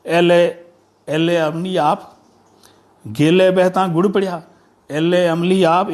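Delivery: measured poem reading with repeated phrases; declaimed folk verse; verse recitation. Acted. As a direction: recite the couplet, dwelling on each phrase.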